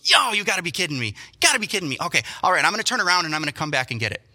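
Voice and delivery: loud, exasperated wife turning the car around. Retold or imitated. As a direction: act the annoyed fiancée on the phone. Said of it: "And she goes".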